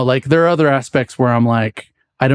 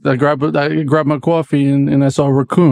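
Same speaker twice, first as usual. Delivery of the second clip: put-on light New York accent, kwaw-fee; coffee as kwaw-fee, East Coast. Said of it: "Well, like, uh, coffee, you know?".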